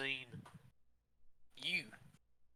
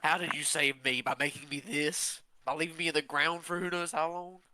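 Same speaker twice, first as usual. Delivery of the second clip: rising anger; 4 semitones higher, 6 dB louder than usual. Acted. Accusing the wizard.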